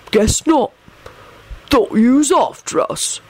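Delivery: a touch sheepish, in a put-on voice. A narrator's reading. Bald man excuses himself to Sirius, sheepish. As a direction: own up to the mix-up, mildly embarrassed. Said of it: "mumbled sheepishly".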